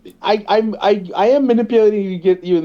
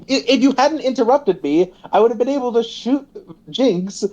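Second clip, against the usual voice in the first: lightly voiced Caitlyn; 6 semitones higher than usual. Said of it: "and she's like".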